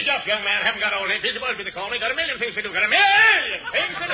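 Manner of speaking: low, brusque busy editor; gruff old editor. Acted. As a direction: bark like a harried old newsman.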